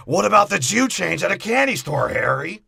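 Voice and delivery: high, loud goofy crook. Acted. Marv pitching a job to Harry, high goofy voice. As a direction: pipe up as a dim-witted sidekick. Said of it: "low-end criminal Kmart Kramer that he is".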